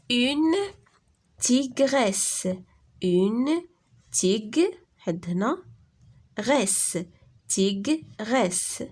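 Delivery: tig, resse, puis tigresse, détaché; découpage syllabique. Shown as a demonstration. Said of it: "deux syllabes". (تقطيع tigresse إلى tig و resse)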